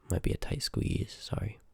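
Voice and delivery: soft unvoiced aside; whispered apology. Leading the Seeker into the cramped basement, a whispered sorry. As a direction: whisper it sheepishly as you squeeze by.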